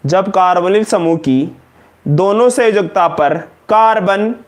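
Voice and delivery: slow, word by word dictation. Acted. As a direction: read it out for notes, phrase by phrase. Dictating a definition. (धीमे-धीमे लिखवाना)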